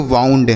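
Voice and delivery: "वाउंड" with ou sounded as "आऊ"; ou read as au. Shown as a demonstration. Teacher reads out the spelled word, "वाउंड" with au. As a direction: model "वाउंड" with an au glide. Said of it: "इसे हम पढ़ेंगे".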